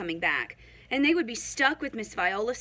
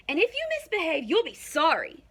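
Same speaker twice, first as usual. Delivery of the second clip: higher, louder warning; threatening teacher; 7 semitones higher, 4 dB louder than usual. A narrator's reading. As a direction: warn them sternly. Miss Swamp threatens the class.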